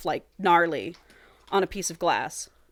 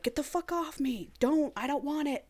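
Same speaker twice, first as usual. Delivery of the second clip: mock protest; 7 semitones higher, 8 dB quieter than usual. Raven resisting in retold scene.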